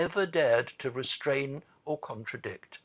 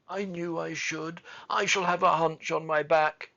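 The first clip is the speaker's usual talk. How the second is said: higher voice, swelling to a wail; choked-out lament; 5 semitones higher, 5 dB louder than usual. A narrator's reading. Boy dreading a hunched back, wailing. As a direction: build into despairing self-pity. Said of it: "choked out Colin".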